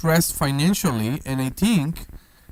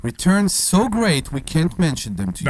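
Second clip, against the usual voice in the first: mock ad slogan. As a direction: sell it like a cheesy commercial. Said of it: "so now we say?".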